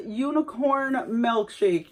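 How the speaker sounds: "Unicorn milkshake" said slowly and evenly, each word drawn out; slow reread. Shown as a demonstration. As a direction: reread the label slowly, as if checking it. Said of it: "That's what it says".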